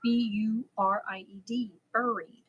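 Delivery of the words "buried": "buried" said BUR-eed, first syllable like "fur"; own pronunciation of buried. Shown as a demonstration. Parent proving the spelling, "buried" as BUR-eed. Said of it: "You spell it".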